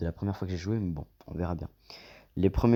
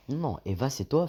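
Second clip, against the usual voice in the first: mock shock, pitch swooping higher; hammed-up disbelief in a higher voice; acting shocked; 5 semitones higher, slower than usual. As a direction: play the stunned guy. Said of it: "fais le mec choqué".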